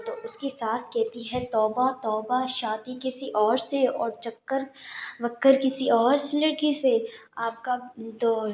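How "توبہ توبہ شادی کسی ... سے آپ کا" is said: slow, drawn-out mild tut-tutting; a touch of a scandalised elder clicking her tongue; shocked mother-in-law. Retold or imitated. Mother-in-law hears of affair. (ساس کا ہلکا سا حیران، افسوس بھرا لہجہ)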